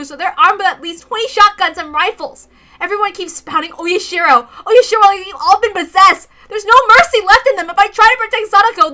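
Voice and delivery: high loud agitated report; high loud frightened telling; frantic account. Acted. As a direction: warn them, voice rising and loud. Mion's frantic account of armed villagers.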